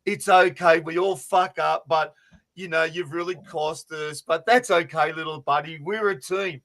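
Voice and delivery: mildly soothing big-teammate voice; consoling. Retold or imitated. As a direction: imitate gently comforting a crying rookie. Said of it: "like, consoling him, going".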